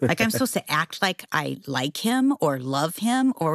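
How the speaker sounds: normal talking voice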